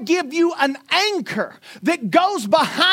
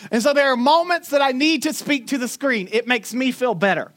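ordinary delivery

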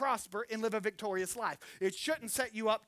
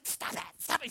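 softer, breathless whispered "stop"; hissed protest; 5 dB quieter than usual. Retold or imitated. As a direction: hiss it so no one in the store hears. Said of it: "She's like".

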